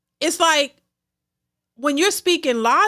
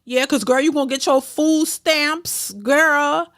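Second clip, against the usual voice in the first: mock hype girlfriend; 2 semitones higher than usual. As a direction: lightly voice a friend cheering her on. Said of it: "This is what they say".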